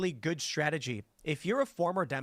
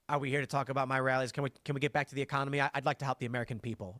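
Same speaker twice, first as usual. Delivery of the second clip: smirking Trump; 3 semitones lower, faster than usual. Retold or imitated. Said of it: "Trump could have just smirked and said".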